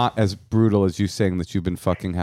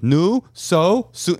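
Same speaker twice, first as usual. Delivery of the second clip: nagging relative; 8 semitones higher, much slower than usual. Retold or imitated. Relatives at weddings nagging about marriage, high and prodding. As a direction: pester him like an old auntie at a wedding. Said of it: "this guy comes up to my cousin and goes".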